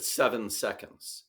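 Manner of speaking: slow, clipped and firm; sharp. Retold or imitated. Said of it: "The way he said it was pretty sharp".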